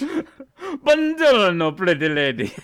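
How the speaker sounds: a cartoon Italian charmer stretching Buongiorno; Italian waiter accent. Co-host voicing a flirty waiter, hammed-up Italian accent. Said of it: "same voice".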